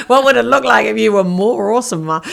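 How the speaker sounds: laugh, then a breathy giggly question. Real, not acted. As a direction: giggle through the silly word. Laughs at her own word.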